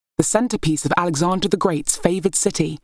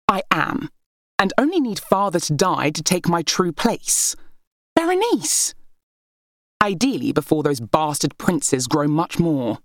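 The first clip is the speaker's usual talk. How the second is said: scornful heir; 2 semitones higher than usual. Acted. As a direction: lord it over your sisters with scorn. Berenice boasts of her claim.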